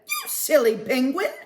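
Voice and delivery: small penguin teasing. Acted. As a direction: tease him playfully like the smallest one. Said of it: "the smallest penguin said".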